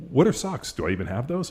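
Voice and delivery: mock-innocent squeak on socks, jumping high; clueless daughter. Dad mimicking his daughter, high and baffled.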